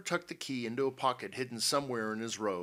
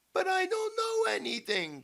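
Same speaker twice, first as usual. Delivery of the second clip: loud, very high protest; desperate cry; 5 dB louder than usual. A narrator's reading. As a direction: cry out in helpless denial. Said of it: "cried Missus Dobson".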